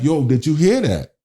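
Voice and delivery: high, urgent, pressing his wife; startled urgent question. Retold or imitated. Husband asking his wife if she heard the voice, high and urgent. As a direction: ask like you just heard a ghost.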